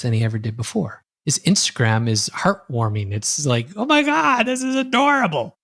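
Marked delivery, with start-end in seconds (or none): 3.8-5.6 much higher, squealing delight; gushing. Retold or imitated. Viewer gushing over cute family photos, squealing. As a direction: coo over something adorable.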